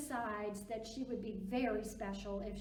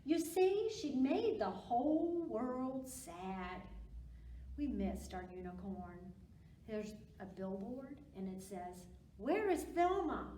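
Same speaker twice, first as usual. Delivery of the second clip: lively picture-book read-aloud; reading to children. Acted. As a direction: read it to little kids with big expression.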